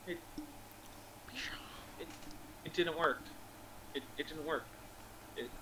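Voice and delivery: soft, halting, low and broken up by long pauses; quietly defeated, struggling to get it out; sad, crestfallen. Acted. Wizard admitting failure to the party, crestfallen. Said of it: "he has the saddest look on his face".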